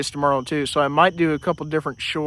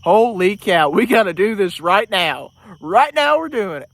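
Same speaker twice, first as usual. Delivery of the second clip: excited; 4 semitones higher, 5 dB louder than usual. Retold or imitated. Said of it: "I'm like".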